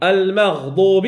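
المغضوب drawn out slowly, each sound clear; slow recitation demo. Shown as a demonstration. Tajweed teacher modelling the word for a student, slow and clear. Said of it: "ماشي المغ".

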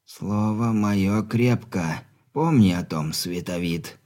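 put-on frail old man, firm and slow; weak but steely. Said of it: "в слабом голосе прорезалась сталь".

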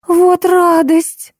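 gleeful cry. A narrator's reading.

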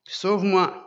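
cry for help. Acted. Peter sinking calls to Jesus, loud cry. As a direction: cry out as you sink.

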